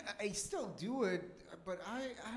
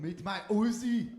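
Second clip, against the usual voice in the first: mediocre German accent; 4 semitones higher, 11 dB louder than usual. Shown as a demonstration. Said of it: "mine is just mediocre at best".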